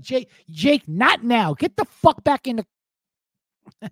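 mock Austrian accent, high and loud; irritated Schwarzenegger. Arnold chasing off Jake from State Farm, irritated mock Austrian accent. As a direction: shoo him away with an Austrian accent. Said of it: "Jake from State Farm pops his".

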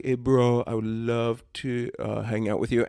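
halting, badly faked Indian accent; half-hearted go at an Indian English voice. Indian caller replying to a chat-line ad, bad imitated Indian accent. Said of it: "This is the worst Indian accent of all time".

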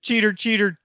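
high sing-song teasing chant; mock them like a schoolkid, pitched high; playground taunt. Co-host teasing the accused cheater, mock sing-song taunt.

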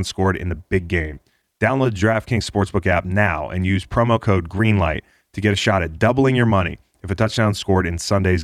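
steady scripted sponsor read. Acted. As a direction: read it like a podcast ad. Host reads sponsor ad.

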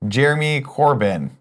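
slow, deliberate American accent. Shown as a demonstration. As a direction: pronounce the British name carefully in an American accent. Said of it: "an American accent".

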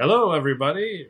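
put-on high, quick old professor voice; a lightly voiced old professor; Futurama professor. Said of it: "the professor from Futurama saying".

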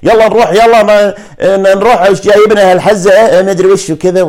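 high, loud Kuwaiti dialect imitation; mimicking Kuwaiti speech, pitched well up; Kuwaiti accent. Shown as a demonstration. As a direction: put on an animated Kuwaiti accent. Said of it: "بقلد كويتي مثلًا".

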